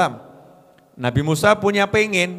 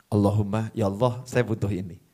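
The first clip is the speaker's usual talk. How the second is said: lower, softer humble asking; soft lower voice, asking God humbly; humble quiet prayer; 7 semitones lower, 8 dB quieter than usual. Shown as a demonstration. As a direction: pray gently, close and humble.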